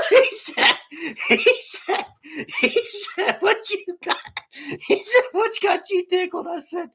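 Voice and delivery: very high, squeaky words through laughter; helpless laughing speech. Real, not acted. Retelling coworker asking what tickled him, laughing helplessly. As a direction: keep restarting as the giggles take over. Cracking up, repeating the story line.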